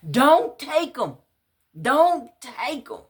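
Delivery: high, loud pleading scream; desperate screaming. Acted. Woman screaming at police not to take her man. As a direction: scream it as they take him away. Running out to stop arrest.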